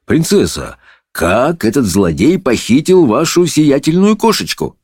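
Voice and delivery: mildly fawning judge; tender little voice. A narrator's reading. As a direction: coax the princess gently. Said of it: "нежным голоском обратился к принцессе".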